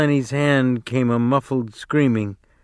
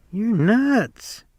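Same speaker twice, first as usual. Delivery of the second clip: laughing; 10 semitones higher than usual. A narrator's reading. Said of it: "Curly's wife laughed at him".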